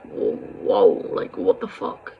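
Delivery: hushed, breathless whisper of disbelief; shocked whisper. Retold or imitated. Shocked seeing mum cry.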